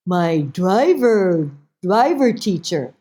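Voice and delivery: lightly voiced mother, very slow; mother's voice. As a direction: draw it out as the mother. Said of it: "She go".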